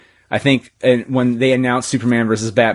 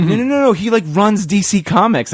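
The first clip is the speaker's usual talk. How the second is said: much higher, mock insistent; insistent quote; 9 semitones higher than usual. Doctor insisting her friend runs DC, high and excited. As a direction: squeal it out to convince him.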